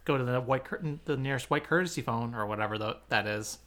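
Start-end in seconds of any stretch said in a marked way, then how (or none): 0.0-2.3 airport PA announcer voice; airport announcement. Acted. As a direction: page him like an airport speaker. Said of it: "That was an actually very good airport announcer voice".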